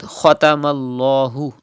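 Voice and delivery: "ختم الله" with heavy kha and dark long l; thick voice. Shown as a demonstration. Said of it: "read with thick voice".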